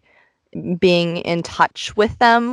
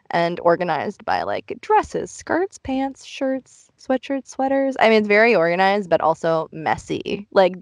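muffled closet acoustics; small closet room sound; inside a closet; 2 semitones higher than usual. Real, not acted. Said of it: "recording this in the closet".

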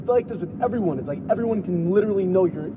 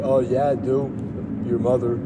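voice in the head; 8 semitones lower than usual. Retold or imitated. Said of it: "the voice in my head".

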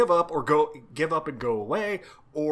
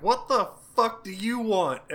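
high-pitched, petulant mock demand; pissy retort; 7 semitones higher than usual. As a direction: act out a pissy, put-upon god. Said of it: "being a pissy baby the whole time".

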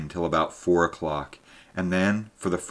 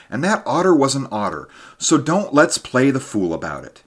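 louder and higher, getting heated; impatient anger; 5 semitones higher, 4 dB louder than usual. Acted. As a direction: scold him out of his fancies, louder. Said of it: "I cried".

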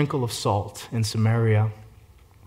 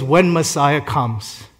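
slow, drawn-out "When Messiah comes"; slow quote; 3 dB louder, much slower than usual. Retold or imitated. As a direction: savor each word of "When Messiah comes" slowly. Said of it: "because she says".

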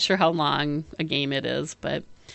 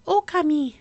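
lilting, pitched-up title announcement; game's title call; 9 semitones higher than usual. Retold or imitated. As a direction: imitate a game's start-screen voice. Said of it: "That's how they say it on".

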